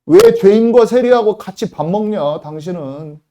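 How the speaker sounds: a Pharisee scolding Jesus for eating with tax collectors, loud and sneering; Pharisee accusing. Retold or imitated. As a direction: snap it like a self-righteous Pharisee. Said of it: "바리새인같이 말하는 거예요".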